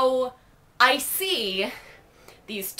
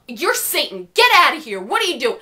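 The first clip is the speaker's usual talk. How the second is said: mock yell; 3 semitones higher, 5 dB louder than usual. Imitating the guys.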